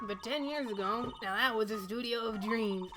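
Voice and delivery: put-on old lady with a touch of New York; New York accent. Old guard laments studio going downhill, New York accent. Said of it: "why she's going New York".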